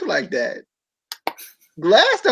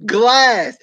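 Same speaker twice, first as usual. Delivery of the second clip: slow, drawn-out announcer voice; slow announcer emphasis; mock commentator; 3 semitones higher, much slower than usual. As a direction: mimic the dramatic commentary. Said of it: "they was like".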